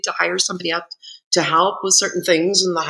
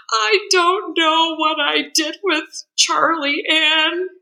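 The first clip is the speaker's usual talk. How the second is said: higher, slow, panicky mother voice; panicked mother; 9 semitones higher, slower than usual. Retold or imitated. Grieving mother who can't find her baby, mild mock panic. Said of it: "And she goes".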